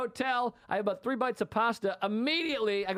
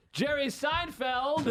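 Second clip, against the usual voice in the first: announcer intro; 5 semitones higher, much slower than usual. Retold or imitated. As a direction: stretch the name out like bringing on a star. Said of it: "if I'm out there going".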